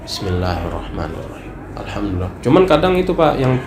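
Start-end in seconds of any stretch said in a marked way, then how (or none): 0.1-2.3 low, very soft recitation; audible only to oneself. Shown as a demonstration. Worshipper reciting just for his own ears, hushed and low. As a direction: murmur the prayer for your own ears. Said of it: "untuk terdengar telinganya sendiri".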